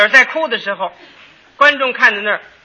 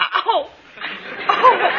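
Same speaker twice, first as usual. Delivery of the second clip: mock sob; 9 semitones higher, 3 dB quieter than usual. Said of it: "你要真这么擦，".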